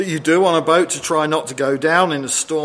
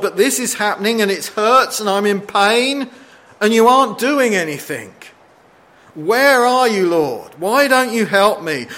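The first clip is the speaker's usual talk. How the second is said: anguished plea; 6 semitones higher, 4 dB louder than usual. Retold or imitated. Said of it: "felt like God is asleep".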